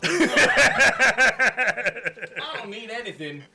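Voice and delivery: put-on Australian accent. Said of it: "Australian accent".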